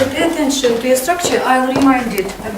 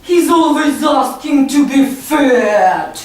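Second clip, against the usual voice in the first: slow, drawn-out mock demand; hungry tummy voice; slower than usual. Shown as a demonstration. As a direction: ham up the greedy little guest. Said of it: "Repeat after me".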